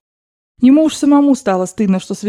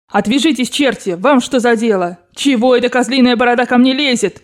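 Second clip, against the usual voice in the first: indignant raised voice, somewhat restrained; frantic scolding; 3 semitones higher than usual. Acted. Grandmother fending off relatives and Frenchman, angry shouting. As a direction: berate them all to back off. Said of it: "Бабушка неистово кричала на них".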